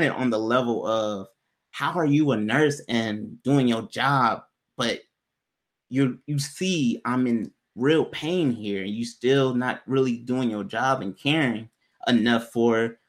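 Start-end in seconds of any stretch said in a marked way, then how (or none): 1.7-13.0 slow pointed reproach. Retold or imitated. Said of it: "I'm speaking on that level".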